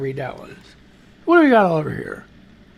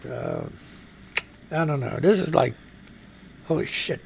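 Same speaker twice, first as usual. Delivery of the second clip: whispered aside; 5 semitones lower, 10 dB quieter than usual. Real, not acted. Muttered under breath.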